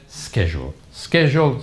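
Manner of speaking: "Schedule" with a hard SK start; American SCHEDULE. Retold or imitated. Teacher quoting all the professors, American SCHEDULE. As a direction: repeat "Schedule" as SKE-jool. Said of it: "all of them said".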